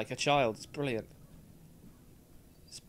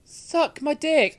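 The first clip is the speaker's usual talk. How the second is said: mock defiance; 11 semitones higher, 11 dB louder, slower than usual. Mocking the mum's request.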